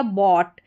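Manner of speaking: "बॉट" with silent gh and final t; "ought" as awt. Shown as a demonstration. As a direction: say "बॉट" with an aw vowel. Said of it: "अ करके sound आ रहा है".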